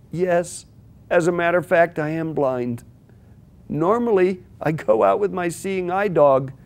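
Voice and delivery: a stranger gently apologizing to the woman he bumped; apologetic blind man. Acted. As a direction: fade into a humble apology.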